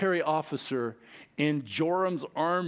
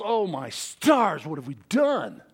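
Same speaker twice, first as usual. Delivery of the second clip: mock dismay. Israelites dying of thirst.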